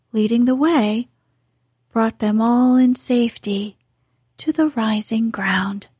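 ordinary delivery

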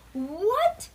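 loud, high yelp of disbelief; shocked yelp. A narrator's reading. Bean learns who will babysit her, shocked yelp. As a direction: yelp it like a startled kid. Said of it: "yelped Bean".

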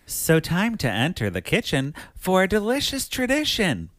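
sing-song rhyming riddle read; measured, swooping recital of a riddle; clue reading. Acted. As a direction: read it like a game clue, lilting up and down. Reads a rhyming game clue.

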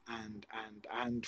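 soft, trailing stammered ands; natural repeated and. Shown as a demonstration. Demonstrating natural repetition to the host, softly. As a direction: let the ands tumble out naturally. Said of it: "if I said 'and, and, and'".

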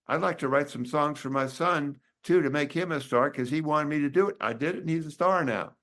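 lightly put-on Southern lady voice; Southern accent. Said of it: "imitation of a Southern accent".

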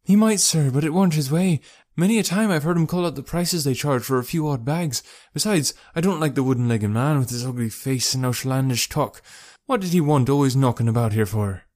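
working woman airing her dislike; boatman's wife, disapproving. Acted. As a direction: grumble as a talkative wife.

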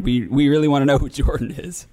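hushed whisper. Acted. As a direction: whisper it close to the phone. Whispered fake sincerity.

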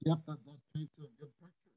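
choppy, breaking-up connection; glitching audio. Real, not acted. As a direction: voice cutting in and out on a bad line. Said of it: "your audio is breaking up".

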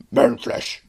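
breathy whispered orc; whispered orc line. Retold or imitated. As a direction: hiss it like a hungry orc. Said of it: "that's what everybody's expecting the guy to say".

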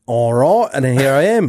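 comic British-style accent demo; put-on accent. Shown as a demonstration. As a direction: launch into the accent from its catchphrase. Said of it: "That's how I get into that, that accent".

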